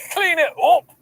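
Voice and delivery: put-on story narration. Resumes the story read.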